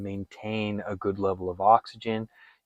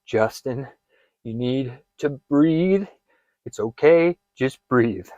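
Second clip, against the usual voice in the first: calling yourself by name; 3 semitones higher, slower than usual. Shown as a demonstration. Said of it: "Call out to yourself by name".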